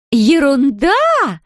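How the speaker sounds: put-on high, drawn-out drunken shriek. A narrator's reading. Drunk Larisa shrieks at Zoya, high and drawn out. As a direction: shriek the word back at her. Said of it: "завизжала Лариса".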